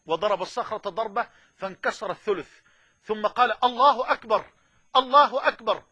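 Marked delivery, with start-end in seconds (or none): 3.6-5.8 exultant takbir. Acted. Quoting the Prophet striking the rock.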